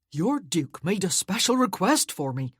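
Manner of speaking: put-on chatty, beaming young servant; eager. Cheerful footman chatting eagerly.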